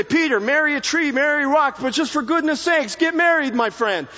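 mock Yiddish matchmaker nagging; yiddish accent. Jesus imagined urging Peter.

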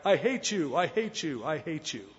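put-on mountains throwing the boy's words back, fading; echo yelling back. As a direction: let it die away like an echo. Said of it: "only to have the mountains yell back".

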